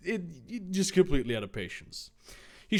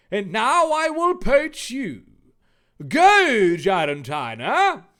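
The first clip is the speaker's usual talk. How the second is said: high, loud, hammed-up villain command; villain battle cry; 7 semitones higher, 8 dB louder than usual. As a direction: bellow it like a cartoon baddie. Villain Jake sending out monster.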